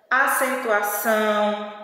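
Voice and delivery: "acentuação" with a nasal "ão" ending; nasal vowel. Shown as a demonstration. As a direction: let the nose vibrate on the end of "acentuação". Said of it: "a gente percebe esse vibrado no nosso nariz". ("acentuação" com o "ão" final nasal)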